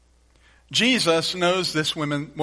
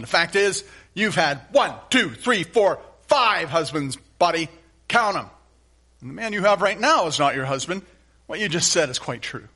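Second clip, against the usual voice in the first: shaming Jesus. Shown as a demonstration. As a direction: read it as a harsh, scornful scolding. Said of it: "Let me read it like they would understand it".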